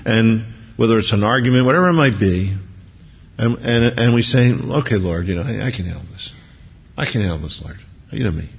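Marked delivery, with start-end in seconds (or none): 4.5-8.5 low offhand assurance. Acted. Acted excuse to the Lord.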